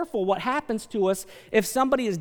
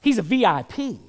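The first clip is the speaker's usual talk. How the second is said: awed, louder gawk at a rich man; hammed-up admiration; impressed gawking; 6 dB louder than usual. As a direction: churchgoers gawking at the billionaire, awed. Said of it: "everybody looks and says".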